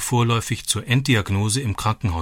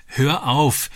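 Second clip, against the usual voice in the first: giggling; 5 semitones higher than usual. A narrator's reading. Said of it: "kicherte sie".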